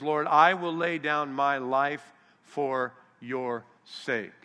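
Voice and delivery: slow, emphatic declaration; self-confident vow. Acted. Peter pledging his life to Jesus, self-confident. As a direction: declare it grandly, word by word. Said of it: "notice Peter's self-confidence".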